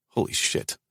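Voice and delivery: breathless whisper of dismay; whispered shock. Real, not acted. He learns her heart condition, a shocked whisper. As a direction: breathe it out in horror. Stomach drops at bad news.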